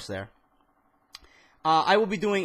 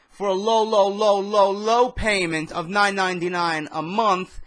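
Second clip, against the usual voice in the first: hammed-up infomercial voice, louder; mock salesman pitch; 6 semitones higher, 7 dB louder, slower than usual. Mock ad pitch for network price.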